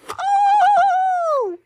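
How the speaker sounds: high, loud mock-surprised oh. Mother revealing the goat, hammed-up surprise. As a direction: gasp it out for the child.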